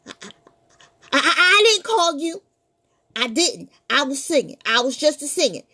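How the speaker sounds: nervous boy pretending to be brave; scared stammer. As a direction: bluff through the fear. Terrified boy denies fear.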